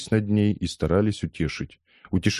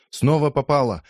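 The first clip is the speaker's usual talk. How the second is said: high, excited cheer; spectators' shout; 8 semitones higher, 3 dB louder than usual. A narrator's reading. Crowd watching the street fight, shouting high. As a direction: cheer a landed blow. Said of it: "кричали они".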